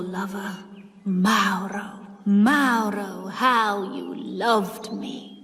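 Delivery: lost in memory of a lover; wistful aunt's voice. Acted. Pauline's voice, longing for Mauro.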